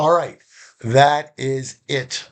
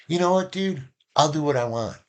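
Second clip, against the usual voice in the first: dismissive reply; 5 semitones higher than usual. Shown as a demonstration. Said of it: "Or I can say".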